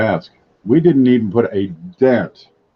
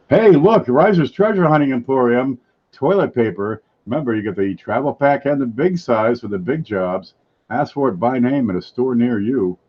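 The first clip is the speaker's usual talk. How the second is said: chipper 1950s ad; 2 semitones higher than usual. Pretend. Mock toilet paper commercial.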